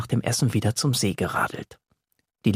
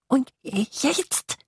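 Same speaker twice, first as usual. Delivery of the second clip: high pleading question; can't wait any longer; impatient little monster; 12 semitones higher than usual. Acted. Tiny monster presses Yassin, high and impatient.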